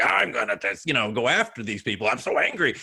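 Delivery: lightly growled inner lizard, mock anger; hint of an angry inner reptile, playfully acted. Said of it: "it's the lizard voice coming like".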